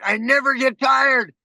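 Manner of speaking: mean every word of it; said with full conviction; said like you mean it. Retold or imitated. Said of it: "say it like you mean it".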